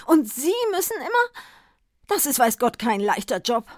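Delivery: high, loud gushing chatter; babbling on. Acted. Druggist gushes at the poor Santa, loud and high. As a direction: pour out admiring sympathy nonstop. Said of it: "redete drauf los".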